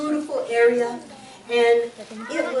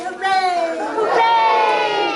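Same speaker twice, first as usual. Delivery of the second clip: high, loud cheer; excited cheer; 9 semitones higher, 5 dB louder, much slower than usual. Pretend. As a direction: whoop it up like kids at a picnic. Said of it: "Everybody say".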